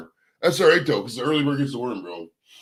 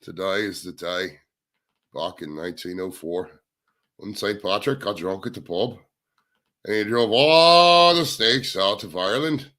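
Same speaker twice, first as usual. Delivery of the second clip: slow, put-on Irish storyteller lilt; attempted Irish accent; 3 semitones lower than usual. Shown as a demonstration. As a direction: have a go at an Irish brogue, unhurried. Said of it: "At least try, let's try".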